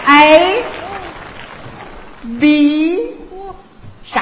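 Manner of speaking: put-on slow, heavy Dongbei-accented alphabet; 奶夫鸡 for F and G, drawn out; Northeast-accented English. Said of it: "请同学们注意我这个发音".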